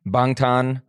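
slow, careful Korean pronunciation; Korean accent. Shown as a demonstration. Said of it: "you did an accent".

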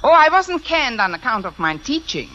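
mock-German teacher's defence; put-on German accent. Fake applicant defending her teaching, put-on German accent. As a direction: protest in a stagey German accent. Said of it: "If I can do a decent German accent".

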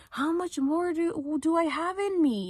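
slow, high, loud mock wail; drawn-out high plea, hammed up; imitated yelling. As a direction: retell her crying out in exhaustion. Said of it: "she was, like, yelling".

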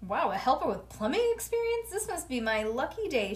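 hairdresser voice. Acted. Child narrator voicing Maxine.

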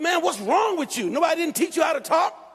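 retold rebuke. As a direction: retell it as an indignant telling-off.

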